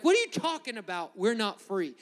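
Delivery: high indignant retort, easing down; mock mad. Preacher acting out offended people answering Jesus, mock-indignant retort. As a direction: push back like an offended listener. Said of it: "And they're mad".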